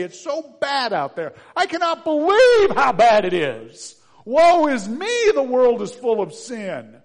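loud, high, hammed-up moaning; mock woeful lament. Preacher mocking a complaining churchgoer, loud and theatrical. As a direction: wail it like an overdone self-pity act. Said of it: "It is so tempting to say".

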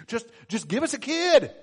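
acted desperate plea; pleading. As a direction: beg for it, pitch climbing. Couple pleading with God.

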